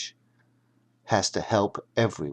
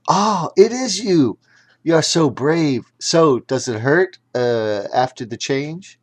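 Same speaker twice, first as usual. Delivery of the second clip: put-on high, bright excited girl voice; thrilled to hear the hat speak; girl bubbling with excitement; excited young girl; 4 semitones higher, 5 dB louder than usual.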